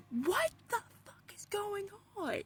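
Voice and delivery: breathless, frightened whisper; a scared whisper over her father's pictures; panicked whisper. Retold or imitated. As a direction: barely voice it in shock. Panic in the dream.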